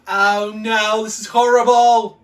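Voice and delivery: very loud cry of disgusted despair; hammed-up horrified outburst; horrified wail. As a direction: wail it out in mock agony. Acted disgust at eating tomato.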